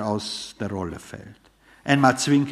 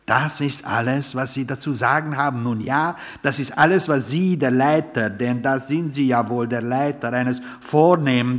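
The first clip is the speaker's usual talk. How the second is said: a touch louder, pompous indignant outburst; indignant tirade; 2 semitones higher, 3 dB louder than usual. Acted. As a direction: rant grandly at the head waiter, losing the thread. Father's indignant tirade at waiter.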